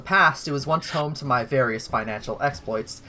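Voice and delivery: grand hostess addressing her tournament players; measured ceremonial welcome speech with lilting emphasis; Oshel Primrose. Acted. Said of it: "she begins the speech with".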